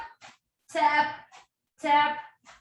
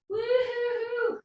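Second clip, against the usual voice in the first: excited cheer; 8 semitones higher than usual. Real, not acted. Coach cheering after set.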